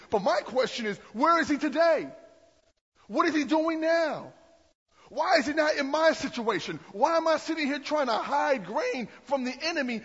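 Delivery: frustrated Gideon. Retold or imitated. Gideon protesting to the angel, loud indignant outburst. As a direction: demand answers from God, loud and hurt. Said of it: "he sits back and says".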